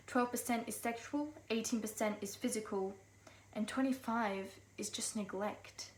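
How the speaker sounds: measured spoken-word poem with deliberate pauses; poetry recitation. Acted. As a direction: recite the closing facts gravely, phrase by phrase. Closes poem with statistics.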